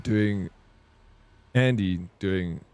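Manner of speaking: slow, drawn-out "Andy doing" in a put-on accent; mock accent. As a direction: play a joke foreign accent, slowly. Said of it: "so that my accent".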